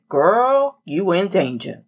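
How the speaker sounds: a light impression of a film character warning a friend; Oda Mae Brown. Her whole being warning her off a job, lightly mimicked. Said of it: "in my Oda Mae Brown voice from Ghost".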